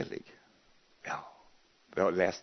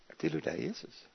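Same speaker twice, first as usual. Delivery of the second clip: hushed prayer; 13 dB quieter than usual. Retold or imitated. Answering Jesus in prayer.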